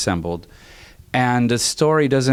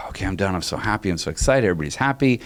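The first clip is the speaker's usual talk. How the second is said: sigh, then softer, relieved and content; 4 dB quieter, faster than usual. Retold or imitated. Composer back in Miami after scoring, soft relieved sigh. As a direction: exhale the weight of the finished job.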